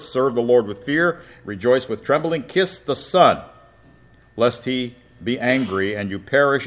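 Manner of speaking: scripture reading. Acted. Preacher reading Psalm two to his class, declaiming. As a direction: proclaim the psalm to the congregation.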